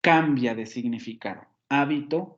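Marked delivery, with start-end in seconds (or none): 1.7-2.3 «Hábito» con golpe en HÁ; acento en la primera sílaba. Shown as a demonstration. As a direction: contrasta marcando HÁ-bi-to. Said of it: "la posición del acento". («Hábito» como esdrújula)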